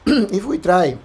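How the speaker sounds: hoarse, clearing throat mid-phrase; losing voice, raspy. Real, not acted. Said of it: "I'm losing my voice a little bit".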